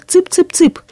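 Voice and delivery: high thin call to the hens; shrill chick call. A narrator's reading. Woman scattering grain calls her hens, high and thin. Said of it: "кричала так же пронзительно тонко".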